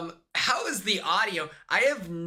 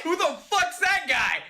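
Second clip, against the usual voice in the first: retold shock; 10 semitones higher, 3 dB louder than usual. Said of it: "I was like".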